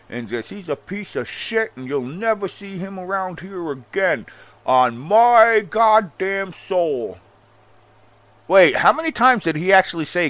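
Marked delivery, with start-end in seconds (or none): 0.5-7.2 higher-pitched mock wrestling promo, slow emphatic finish; Vince Russo promo. Commentator imitates an angry wrestling promo, hammed-up. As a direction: build to a drawn-out, louder mock oath. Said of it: "cut a promo".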